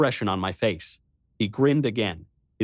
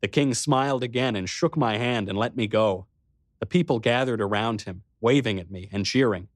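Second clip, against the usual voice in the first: ordinary delivery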